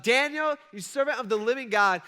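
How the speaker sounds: high, loud anguished call down into the den; desperate yell. Retold or imitated. King calling down into the lions' den, high anguished yell. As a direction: cry out to him in despair. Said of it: "And so he yells out".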